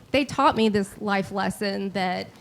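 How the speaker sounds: usual speaking voice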